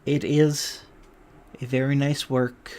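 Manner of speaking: mollified, halting shopkeeper; softened. Acted. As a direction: concede gently, then ask quietly. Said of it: "He softens a little bit".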